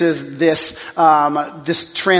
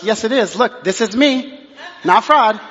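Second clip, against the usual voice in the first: higher, laughing protest rising into a shout; mock indignant protest; 4 semitones higher than usual. Pastor insisting to store staff, higher laughing protest. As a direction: protest your innocence, half laughing.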